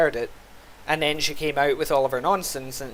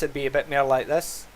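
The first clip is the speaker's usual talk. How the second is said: heavier Scottish accent. Shown as a demonstration. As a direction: lay the Scottish accent on thicker. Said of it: "really go heavy into it".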